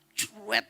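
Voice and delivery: quick vocal swish of a spinning car; car-spin noise; skidding sound effect. Retold or imitated. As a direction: imitate a car whipping round.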